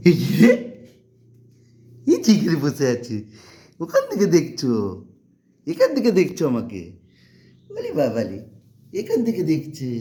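high, loud teasing call; playful discovery. Real, not acted. Finds the hiding child.

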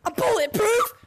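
triumphant shouted brag; loud boast. Real, not acted. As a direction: shout it high and proud. Boasting in game.

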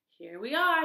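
high, loud happy announcement; bounding pup proudly announces; eager arrival. Acted. Puppy brings the kitten home, happy announcement.

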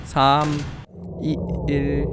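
monotone android shutdown countdown; robot voice. Pretend. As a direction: announce it like a machine powering off. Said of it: "쫀드로이드".

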